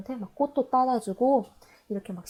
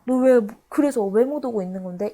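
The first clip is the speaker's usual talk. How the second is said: louder, exasperated demand; mock anger; 5 dB louder than usual. Poem's speaker turns on the absent lover, mock angry. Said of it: "어머, 다시 너무 화가 나".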